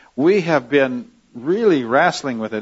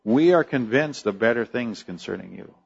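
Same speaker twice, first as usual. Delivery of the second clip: softened reassurance; 3 dB quieter than usual. Acted. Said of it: "he comes with this next statement".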